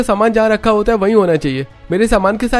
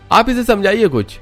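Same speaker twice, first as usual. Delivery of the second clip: loud, much higher, defiant angry shouting; angry retort; 11 semitones higher, 3 dB louder than usual. Acted. Son argues back at his mother, angry loud retort. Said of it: "Rohan का गुस्सा देखकर".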